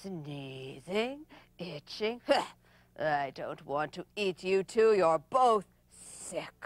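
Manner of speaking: loom over them, deliberately; menacing leopard. Acted. Leopard sizes up prey.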